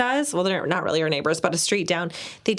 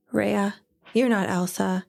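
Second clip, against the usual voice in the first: put-on little boy voice. Five-year-old son quoted.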